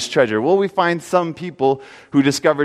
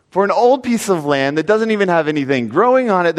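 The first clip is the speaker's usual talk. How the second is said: incredulous friends. Acted. Friends protest the foolish sale.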